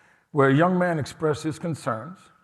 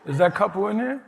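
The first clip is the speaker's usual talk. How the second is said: excited calling out; 8 semitones higher, 3 dB louder than usual. Retold or imitated. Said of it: "but said".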